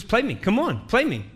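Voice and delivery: high, taunting dare in a retold wife's voice; goading challenge. Wife challenges him to play.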